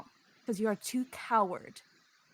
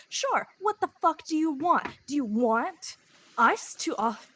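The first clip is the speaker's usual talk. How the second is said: higher, sharper demand; angry; 4 semitones higher than usual. Acted. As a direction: bark the question. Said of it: "Harry is fucking angry".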